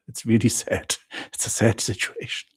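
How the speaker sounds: laughing through the word sad; can't keep a straight face about the sad queues. Real, not acted. Host to chat, giggling while calling it sad. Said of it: "I can't stop laughing".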